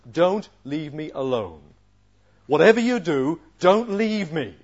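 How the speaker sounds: acted desperate appeal; terrified plea. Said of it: "Jesus is horrified. He's terrified".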